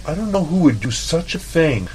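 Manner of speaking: high put-on voice, cracking into laughter; imitating Lucy's innocent concern with laughter; mock innocent coworker. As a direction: play dumb and sweet as Lucy, laughing through it. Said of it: "and she's like".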